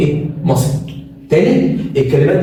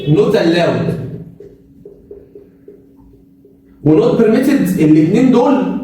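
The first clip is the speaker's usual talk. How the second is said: slow emphasis; much slower than usual. Shown as a demonstration. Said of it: "خلي بالك بقى من الحتة دي".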